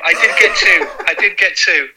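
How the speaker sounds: chuckling through the words; laughing. Real, not acted. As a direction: laugh it out, pleased. Laughing while recalling two goals.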